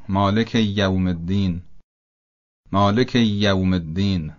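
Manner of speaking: یوم with a held double y, "maleki-yyawm"; long, stressed y joining مالک to یوم; doubled Y. Shown as a demonstration. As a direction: lean on the first sound of یوم, doubling it.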